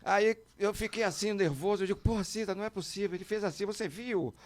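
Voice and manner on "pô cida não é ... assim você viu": high, breathless mock panic to his wife; panicked pleading. Telling his wife he saw Roberto, anxious and high. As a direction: replay the nervous begging, pitched up.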